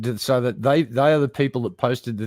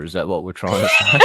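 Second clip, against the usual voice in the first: laughing question; 3 semitones lower, 3 dB louder than usual. Real, not acted.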